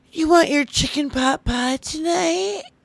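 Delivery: sugary, put-on baby-talk voice. Showing how a trad wife talks to her husband: put-on baby voice. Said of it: "that baby voice".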